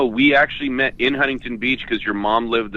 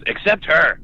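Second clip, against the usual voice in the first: higher, giggling through a mother's dry jab; tossing off the jab while laughing; laughing mom quote; 7 semitones higher, 13 dB louder, slower than usual. Retold or imitated. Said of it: "she just turns and goes".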